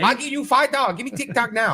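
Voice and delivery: put-on Asian accent. Mimicking Asian recruiter.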